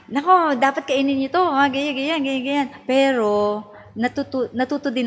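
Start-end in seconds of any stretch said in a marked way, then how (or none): 0.1-2.7 mock nagging, raised pitch; nagging mother. Mother scolding her kids about what to eat, lightly nagging. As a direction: nag the kids about food. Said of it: "dati mabunganga ako eh".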